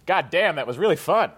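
lightly imitated singer's speaking voice; a hint of the frontman between songs; a singer's offstage voice. Imitating a singer a second later on mic, different speaking voice. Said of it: "Just a totally different speaking voice".

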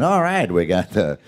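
college basketball announcer, hammed up a touch; lightly voiced game announcer; sports announcer voice. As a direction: call it like a TV play-by-play man. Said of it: "you'll get this guy going".

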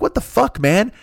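betrayed and stunned; outraged disbelief. Retold or imitated. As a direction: Rick reacting when Shakespeare publishes the play alone. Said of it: "Rick is just like".

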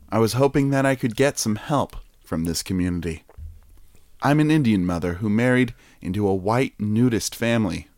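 reading voice. Acted. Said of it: "I'm gonna drop out of the voice".

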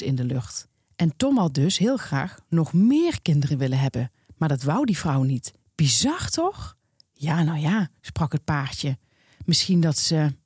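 reading a newspaper column to listeners, voicing both girls; lively storyteller read with light character voices; column read aloud. Podcast host reads a column aloud, lively storytelling read.

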